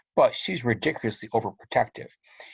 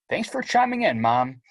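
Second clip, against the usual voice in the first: sarcastic; 3 semitones higher than usual. Acted. Sarcastic teen to mom.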